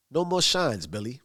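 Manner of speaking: reiterate it with restrained insistence; not having it. Retold or imitated. Tommy reiterating to Billy, not having it. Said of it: "Tommy reiterates, 'cause he's not having it".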